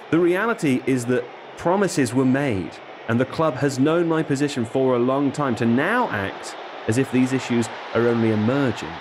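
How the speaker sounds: lightly voiced aggrieved footballer, measured; Alexander Isak. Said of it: "this is Alexander Isak".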